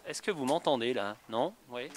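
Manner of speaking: muffled behind a face mask; through a face mask. Real, not acted. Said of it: "il va falloir que j'enlève le masque pour parler".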